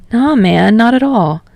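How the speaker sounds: cheerful friend happily agreeing; eager, welcoming reply; bright. Acted. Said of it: "Kirishima said brightly".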